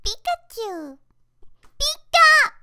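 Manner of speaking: high squeaky Pikachu calls. Acted. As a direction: chirp it like the yellow mouse. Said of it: "that was all my voice acting".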